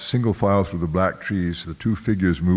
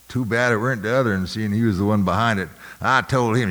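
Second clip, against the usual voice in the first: fast, defensive overseer talk; a brisk hint of a sullen overseer; Claxton's gruff overseer voice; 4 semitones higher, faster than usual. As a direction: rattle it off like a guilty overseer.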